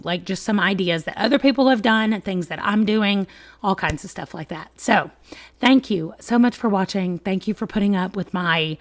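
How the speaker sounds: hoarse, sick voice; talking through a cold. Real, not acted. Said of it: "very sick sounding voice".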